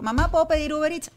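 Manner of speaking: high, whiny imitation of a son begging; a mother lightly mocking her son's request; mock teenage son. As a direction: lightly mimic a lazy kid asking mom for food. Mother mimics son asking her.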